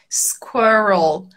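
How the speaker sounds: "squirrel" stretched out slowly with an English R; English R demonstration. Shown as a demonstration. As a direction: draw out "squirrel" to show the English R. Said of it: "aqui vai ser aquele R ainda".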